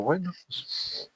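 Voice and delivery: a hesitant, drawn-out okay; young man reluctantly agrees to carry him, soft; reluctant agreement. Retold or imitated.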